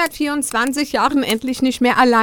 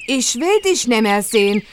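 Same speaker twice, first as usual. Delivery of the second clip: put-on girl shouting down from the window, building to loud and higher at the end; scolding a lying suitor from the tower, getting louder; 4 semitones higher, 3 dB louder than usual. Angry girl at the window yelling down at the prince. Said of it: "brüllte hinunter".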